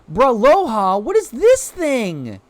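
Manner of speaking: put-on high, squeaky baby talk at a cute creature. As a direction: coo it high and slow like to a puppy. Look at how cute they are.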